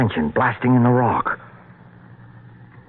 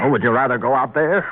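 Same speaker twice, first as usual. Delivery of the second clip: higher-pitched, testy comeback; irritated retort; 5 semitones higher, faster than usual. Acted. Man to woman in their hiding place, irritated. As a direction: snap back with mild anger. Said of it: "don't be angry with me".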